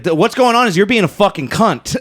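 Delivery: laughing mock snap; laughing retold anger; mock angry retort. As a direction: retell the insult with a laugh.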